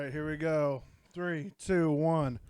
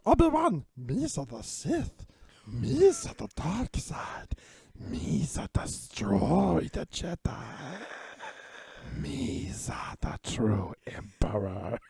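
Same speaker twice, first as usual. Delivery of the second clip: sinister Jar Jar voice; 3 dB quieter, slower than usual. Pretend. Jar Jar as evil emperor.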